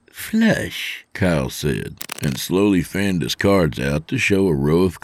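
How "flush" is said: very high put-on youngster voice; triumphant young trainee. Trainee beating his boss at poker, triumphant. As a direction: announce the winning hand as the kid. Kyle reveals his winning hand.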